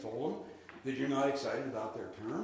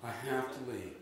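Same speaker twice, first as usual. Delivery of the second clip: soulful, a little sad; 2 semitones lower, 5 dB quieter than usual. Shown as a demonstration. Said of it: "you have to sound a little soulful, a little bit sad".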